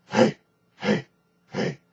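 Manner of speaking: short grunted hey from the belly; caveman grunt. Shown as a demonstration. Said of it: "do something called a grunt or a caveman".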